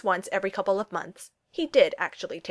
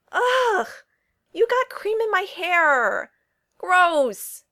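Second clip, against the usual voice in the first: disgusted shriek; 11 semitones higher, 7 dB louder, much slower than usual. Acted. Cream flung in a slap fight.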